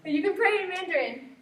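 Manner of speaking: high, gentle comforting voice; reassuring. Retold or imitated. Julie comforts Mai on the bus, high reassuring tone. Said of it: "Julie was able to say".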